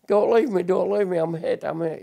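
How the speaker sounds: echoed plea. Retold or imitated. Remembered voices at war graves.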